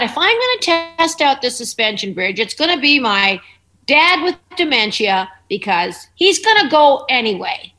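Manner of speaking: loud, high joking thought; mock dark joke. Joking to a friend about testing the bridge, loud and high. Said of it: "I thought".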